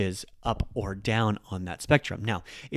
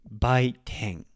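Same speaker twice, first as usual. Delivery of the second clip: "baiten" low on "bai", higher on "ten"; low-high pitch accent. Shown as a demonstration. Teacher gives an example word, "baiten" going low to high. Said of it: "bai is lower".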